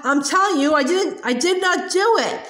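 a touch of a desperate scream; mild scream. Acted. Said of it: "Matilda screamed".

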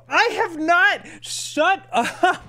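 high, loud denial breaking into laughter; laughing protest. Real, not acted. Streamer teased by chat, laughing high-pitched protest. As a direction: protest shrilly through a laugh.

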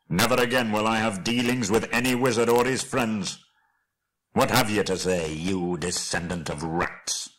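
angry vow sinking to a rasped insult; dwarf king's scorn, fading in volume; bitter dwarf lord. Acted. Thorin disowns wizard and hobbit.

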